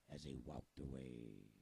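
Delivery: pirate voice. Acted. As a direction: talk like a salty pirate storyteller. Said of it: "Do you think I sound like a pirate?".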